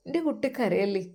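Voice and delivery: don't cry, whispered gently; mother whispers comfort to her crying son; soothing whisper. Acted. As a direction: hush him in a whisper.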